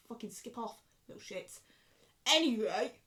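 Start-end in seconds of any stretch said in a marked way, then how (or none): 0.1-1.6 whispered insult. Real, not acted. Insulting both liars.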